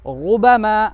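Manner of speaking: रुबमा with a full, heavy opening R; thick heavy R. Shown as a demonstration. Teacher answering how to thicken it, thick R. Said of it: "उसको कैसे मोटा करेंगे".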